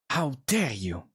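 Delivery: mock-indignant in a Swedish accent; lightly put-on Swedish accent. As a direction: try your most Swedish accent. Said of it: "in his most, uh, Swedish accent".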